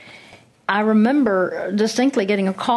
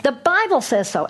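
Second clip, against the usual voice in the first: emphatic repeat; 5 semitones higher than usual. Real, not acted.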